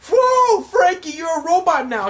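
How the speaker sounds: very high, loud squeal of amazement; awestruck fanboy. Retold or imitated. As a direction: squeal it like a starstruck little cartoon character. Acts out awestruck Chopper and Usopp.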